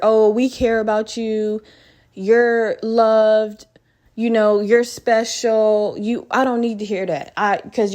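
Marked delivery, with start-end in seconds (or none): 0.0-6.0 slow, saccharine fake reassurance; mock syrupy comfort. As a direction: parody a greeting-card pep talk. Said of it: "fake shit out of a book".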